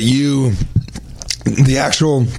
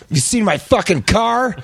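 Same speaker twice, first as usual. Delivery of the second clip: high, slow, hammed-up outrage; mock-furious artist, pitched right up; angry caricature artist; 8 semitones higher, slower than usual. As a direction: demand it in comic high-pitched anger. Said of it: "Here's the angry caricature artist".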